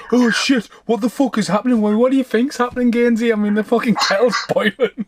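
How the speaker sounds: mock alarmed friend cracking up; excited retelling. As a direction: play it like you can't believe what's happening. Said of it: "And Gainsey like".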